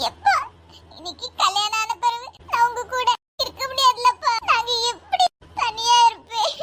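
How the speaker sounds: tearful plea, drawing out the last words; crying as you speak, ending in sobs. Acted. Bride to her father about leaving him, tearful. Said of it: "என் அம்மா அழுதுகிட்டு இருக்கா".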